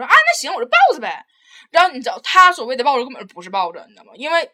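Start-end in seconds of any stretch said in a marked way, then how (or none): 0.0-1.2 grudging reply. Retold or imitated. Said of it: "然后完了你就那个说".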